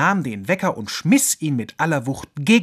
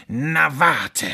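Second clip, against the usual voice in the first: mock threat; 4 dB louder than usual. Fox vows revenge on door.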